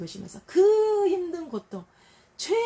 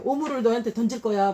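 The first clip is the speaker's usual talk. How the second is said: louder, harsh threat; mock threat; 3 semitones higher, 5 dB louder than usual. God voiced threatening Israel, louder. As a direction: throw the threat out bluntly. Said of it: "하나님도 막 막말해".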